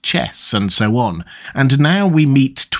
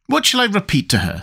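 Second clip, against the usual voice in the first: Tweedledee voice; 8 semitones higher than usual. Acted.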